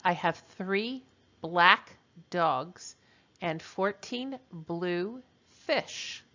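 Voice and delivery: very slow, word-by-word dictation. Shown as a demonstration. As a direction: stretch it out for the students. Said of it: "I'll repeat that".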